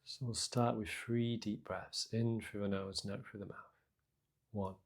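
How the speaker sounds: soft, unhurried meditation guidance with long pauses; guided meditation. Acted. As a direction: gently guide listeners into their breath and body. Leads a breathing meditation.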